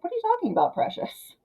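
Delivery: a hint of a fake-sweet father playing dumb; mock gaslighting dad. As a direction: feign innocence, coo it at her. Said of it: "he's like".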